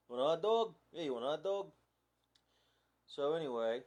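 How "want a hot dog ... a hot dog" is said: put-on Long Island accent. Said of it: "I could say it like they say, like, in Long Island".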